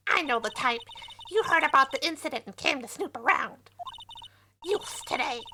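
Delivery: put-on old lady voice. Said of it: "do you hate my old lady voice".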